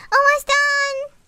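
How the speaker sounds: loud, high, slow shout of almost done; shouted reply. Real, not acted. Shouting back to someone off-mic, loud and high. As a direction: yell Almost done across the room, drawn out.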